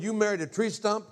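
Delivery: high, loud mock-incredulous question; retold disbelief. Son questions mom's new marriage, mock incredulous. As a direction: play up a kid's disbelief.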